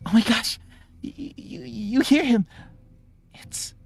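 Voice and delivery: high, halting, whispery voice of amazement; very quiet oddball. Acted. Loner amazed another hears Bartholomew, very quiet oddball. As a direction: stammer in a tiny high voice, dropping to a whisper. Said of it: "very quiet".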